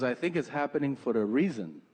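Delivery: put-on light Peruvian accent, knowing tone. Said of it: "she's from South America, Peru".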